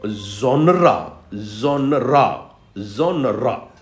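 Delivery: "genre" said as two syllables, zhon-ra; teacher repeating "genre" as zhon-ra. Shown as a demonstration. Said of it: "we pronounce it like genre".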